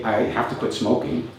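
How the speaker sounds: reluctant obligation, said as a chore; dutiful have-to. Retold or imitated. Speaker imitating an unmotivated smoker, dutiful and reluctant. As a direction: sound like it's a burden you can't escape. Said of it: "For example, to say".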